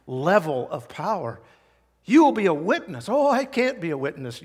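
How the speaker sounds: punchy, forceful pulpit delivery with loud key words; emphatic preaching. Real, not acted. Preacher to congregation on receiving power, emphatic preaching. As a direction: drive the promise home.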